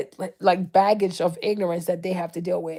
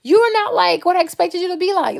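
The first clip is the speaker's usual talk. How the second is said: mock surprised white person; 9 semitones higher than usual. White people meeting a Black woman, mock amazement. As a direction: imitate a gushing, astonished stranger up high. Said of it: "They're like".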